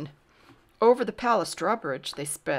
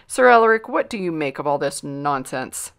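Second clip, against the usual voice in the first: impatient; 3 semitones lower, 8 dB louder than usual. Acted. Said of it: "said the king impatiently".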